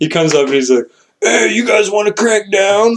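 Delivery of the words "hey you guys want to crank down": hoarse, raspy yell, very high. Retelling a guy hoarse from yelling all night walking up to their site, raspy voice. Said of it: "with a really raspy voice".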